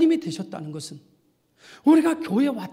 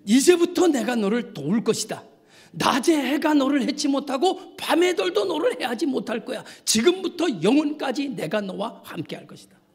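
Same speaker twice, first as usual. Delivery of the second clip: raised, driving scripture proclamation; declaimed divine promise; 6 semitones higher, 3 dB louder than usual. Real, not acted. Preacher voicing God's promise to believers, declaimed proclamation. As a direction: promise it firmly as God's word.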